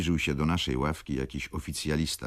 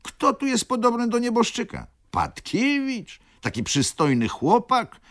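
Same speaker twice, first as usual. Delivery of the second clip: baroness pleading; 8 semitones higher, 3 dB louder than usual. A narrator's reading. Baroness pleads before the judge.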